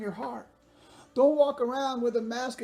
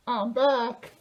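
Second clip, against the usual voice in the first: talking through a mask, a bit louder; muffled behind a mask, pushing the voice out; masked "I'm back"; through a face mask; 4 dB louder than usual. Real, not acted. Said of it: "I can barely breathe in this thing".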